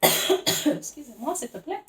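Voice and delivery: high, slow, loud hammed-up fancy voice; mock posh French. Reader jokingly putting on airs, mock posh French. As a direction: play at being grand and French.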